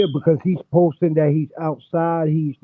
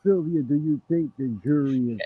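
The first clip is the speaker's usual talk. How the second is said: muffled; 4 dB quieter than usual. Real, not acted. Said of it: "You sound muffled".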